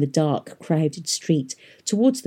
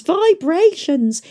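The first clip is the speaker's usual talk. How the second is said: falling, drawn-out complaint; صوت متذمر هابط; falling whine; 13 semitones higher, 5 dB louder, much slower than usual. A narrator's reading.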